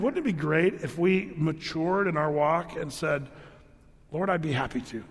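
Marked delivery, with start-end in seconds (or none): 4.1-5.0 sincere surrender. Shown as a demonstration. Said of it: "and really mean it".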